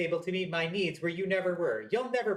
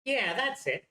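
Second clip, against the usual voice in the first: exclaiming; 5 semitones higher than usual. Acted. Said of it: "you exclaim out loud".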